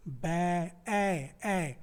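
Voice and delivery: "बै" drawn out, then "ए" held alone twice; long separate "ए" sounds after "बै"; vowel isolated. Shown as a demonstration. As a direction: stretch the vowel of "बै" and repeat it as "ए". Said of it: "सिर्फ एक स्वर मिला".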